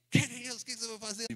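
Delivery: loud, sharp scolding uncle; angry scolding. Retold or imitated. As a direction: tell him off right after the slap. Uncle scolding the rescued boy.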